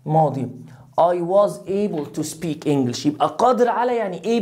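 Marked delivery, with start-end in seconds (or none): 1.0-3.1 slow I was able to speak English; teacher drilling past tense. Shown as a demonstration. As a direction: say each word slowly.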